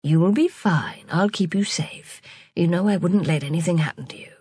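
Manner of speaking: gentle. Acted. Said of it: "said Ashoka gently".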